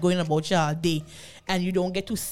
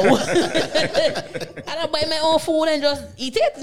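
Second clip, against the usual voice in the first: slow words through a laugh; 8 semitones higher, 4 dB louder, slower than usual. Real, not acted. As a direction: chuckle as she tells it. Laughing while telling story.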